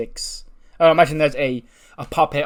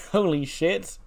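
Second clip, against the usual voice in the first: laughing disbelief; 7 semitones higher, slower than usual. Real, not acted. Laughing at the match rating.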